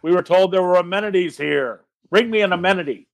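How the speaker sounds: a light in-character bellow; mild yell. Acted.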